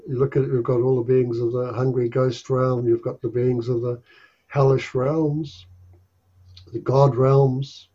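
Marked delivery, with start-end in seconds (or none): 4.5-7.9 choking. Real, not acted. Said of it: "You sound like you're choking a little bit there".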